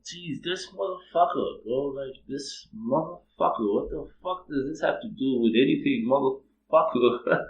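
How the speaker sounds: mock-incredulous, drawing out the final curse; acted exasperation. Acted exasperated reaction to verse.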